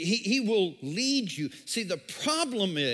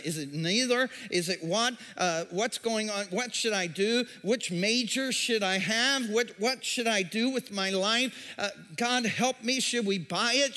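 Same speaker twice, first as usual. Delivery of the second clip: anxious questioner. Acted. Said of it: "we have all these questions".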